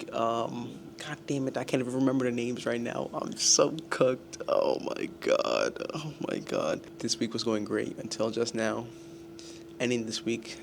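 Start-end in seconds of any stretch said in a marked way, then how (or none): 3.1-6.8 slow defeated groan. Real, not acted. Student forgetting exam vocabulary, slow defeated groan. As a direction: drag it out, totally defeated. Despairing over forgetting terms.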